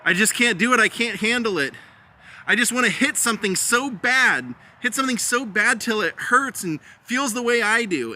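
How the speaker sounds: imitating someone who can't cope; upset outburst. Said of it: "she gets very upset".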